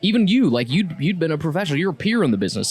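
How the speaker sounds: ordinary delivery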